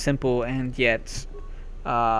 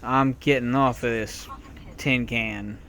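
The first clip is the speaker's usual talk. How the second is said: fed up. Retold or imitated. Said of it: "So I just say".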